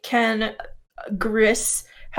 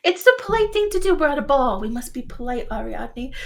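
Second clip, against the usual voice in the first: prim character voice; 3 semitones higher, 4 dB quieter than usual. Acted. Gris scolding Ariadne in character.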